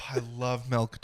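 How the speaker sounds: "milk" with an eh vowel, like "melk". Real, not acted. Host professing his love of milk, saying "milk" as "melk". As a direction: say "milk" leaning towards "melk". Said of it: "you got a little bit of eh in there".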